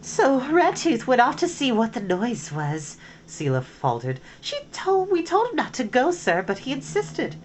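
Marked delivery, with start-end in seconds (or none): 0.0-3.0 nervous high-pitched stammer; squeaky frightened servant; high weasel voice. Acted. Weasel Seela reports to chief. 4.4-7.4 high, fast frightened pleading; nervous high voice. Acted. Seela excuses herself.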